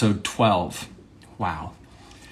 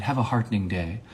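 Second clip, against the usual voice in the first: softer, understated sincere farewell; 5 dB quieter than usual. Pretend. Monologist trying a goodbye for a serious moment, sincere and soft. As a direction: say it quietly, as if you mean it. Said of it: "That one's kind of sincere".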